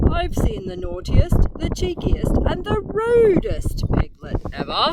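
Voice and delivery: put-on a huffy old gentleman listing grievances; Major voice. A narrator's reading. Major complaining to Mother Pig, lightly indignant.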